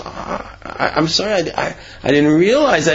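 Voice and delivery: stammering, taken-aback apology; flustered apology. Acted. Yid apologizing to the screaming Rav, flustered. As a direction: stumble over the words as if caught out.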